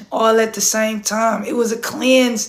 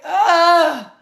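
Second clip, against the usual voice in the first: reenacted cry; 5 semitones higher, 3 dB louder than usual. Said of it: "It was like".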